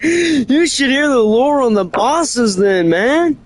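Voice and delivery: slow, giggly retake of the line; laughing. Real, not acted. Retaking his line for the friend, laughing. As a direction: repeat it while still laughing. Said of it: "repeats line with a laugh".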